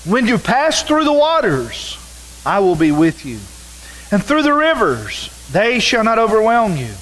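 preacher reading Isaiah aloud; scripture reading. Acted. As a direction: proclaim the verses to the congregation. Reads scripture aloud in sermon.

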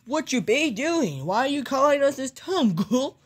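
lightly put-on cartoon sidekick voice; Goofy. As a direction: do a loose, homemade cartoon voice on the phone. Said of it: "Hi, Goofy and Donald".

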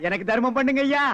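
hammed-up begging drone; mock beggar's plea. Posing as a beggar, whining to a passerby for alms. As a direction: stretch out ஐயா in a long pleading whine.

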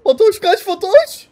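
high, slow urgent call. Real, not acted. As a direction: yell a warning to a teammate. Urgently calling out to teammate.

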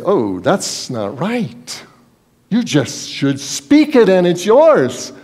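slow, sarcastic voicing of God; mocking what God did not say; mock reply. Preacher mocking the idea of God's reply, slow and sarcastic. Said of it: "And God didn't say".

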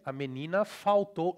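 Brazilian, with full vowels and L as u; Brazilian Portuguese accent. Shown as a demonstration. Teacher pointing at the L, Brazilian Portuguese accent. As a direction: say it like a Brazilian, "fau-tou". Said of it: "in Brazilian".

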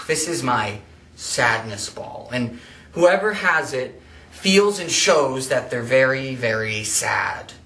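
sighing, heavy and drawn-out, mildly sad; acted sadness. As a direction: play sad with a sigh and slow, dragged words. Introduces sadness ball, acting sad.

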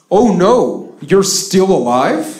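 put-on slow, surprised Russian accent; a mock Russian phone answer. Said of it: "they answer the phone with".

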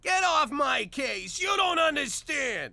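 shouted defiance. Acted. Husband fighting back at wife.

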